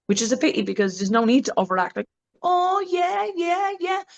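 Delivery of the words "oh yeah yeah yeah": much higher, hammed-up oh yeah; mock porn overacting. Mocking porn actors repeating yeah, high and hammy. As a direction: parody a performer overdoing it. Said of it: "you said it once, you don't need to keep saying it".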